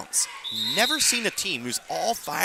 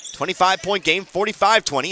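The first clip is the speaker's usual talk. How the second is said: excited score call; 6 semitones higher, 5 dB louder than usual. Real, not acted. Calling the score.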